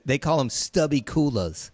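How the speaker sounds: slow, drawn-out Australian stubby coolers; half-hearted Australian accent, stretching Stubby coolers; a weak Aussie voice, slowed down. Retold or imitated. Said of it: "I can't do an Australian accent".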